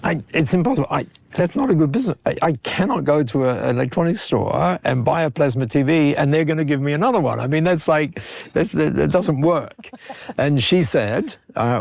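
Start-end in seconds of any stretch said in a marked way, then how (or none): 0.0-9.9 higher-pitched, mildly incredulous protest; retold disbelief. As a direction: act out being baffled and objecting. Acts out his protest to Masami.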